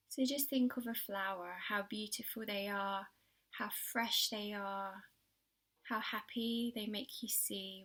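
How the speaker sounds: gentle, unhurried guiding with long pauses; children's relaxation exercise voice; guided meditation. Acted. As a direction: ease young listeners into calm, phrase by phrase. Guides a pebble visualisation.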